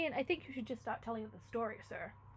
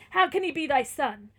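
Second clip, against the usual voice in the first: very loud, mounting indignation; outraged disbelief; 4 semitones higher, 18 dB louder than usual. Acted. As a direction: build to a scandalised, incredulous question. Manfred doubts the friar's claim.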